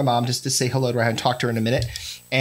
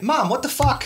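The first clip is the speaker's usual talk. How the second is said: higher mock indignant cry with a laugh; mock outrage; 10 semitones higher than usual. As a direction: act outraged at mom, laughing. Mock outrage at his mom.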